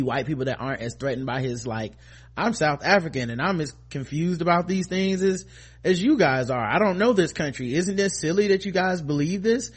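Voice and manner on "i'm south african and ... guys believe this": Trevor Noah. Retold or imitated. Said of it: "Trevor Noah and his crew".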